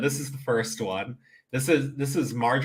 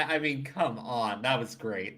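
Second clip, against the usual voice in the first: normal talking voice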